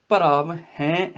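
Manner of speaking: slow ਭਰਾਵ, then nasal hain for ਹੈ; nasalised ਹੈ. Shown as a demonstration. Teacher modelling the nasal dot, slow nasalised ਹੈ. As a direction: draw out ਹੈ through the nose. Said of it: "ਹੈ ਜਿਹੜਾ ਬਿੰਦੀ ਨਾਲ".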